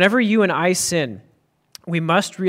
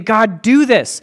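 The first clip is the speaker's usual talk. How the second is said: commanding prayer; 3 semitones higher, 4 dB louder, slower than usual. Retold or imitated. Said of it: "He's saying".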